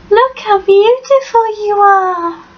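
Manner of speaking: fond dog talk. Real, not acted. Owner showing off her dog to the camera, cooing fondly.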